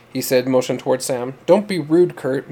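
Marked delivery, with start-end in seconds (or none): 1.5-2.5 demanding. Acted. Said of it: "Melody demanded".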